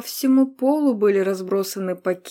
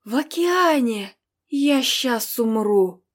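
excited; 3 semitones higher than usual. Acted. Girl overwhelmed with delight.

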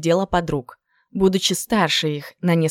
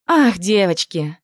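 slow drawn-out sighing ах; a hint of a dramatic girlish sigh; sighing girlfriend; slower than usual. Third girlfriend cutting in with a slow sigh. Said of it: "вмешалась в разговор третья подружка".

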